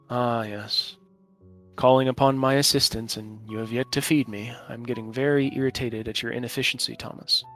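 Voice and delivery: calm, regal father speaking inside your head; measured, patient, kingly disapproval; patient fatherly regal voice. Acted. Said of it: "patient, fatherly, almost regal voice in your head".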